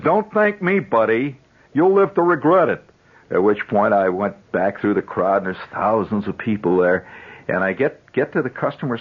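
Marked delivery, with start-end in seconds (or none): 0.0-2.8 higher, louder ominous warning from a sour elevator man; grumpy elevator operator. Retold or imitated. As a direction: warn the kid like a gloomy old operator. Grumpy elevator man warns boy.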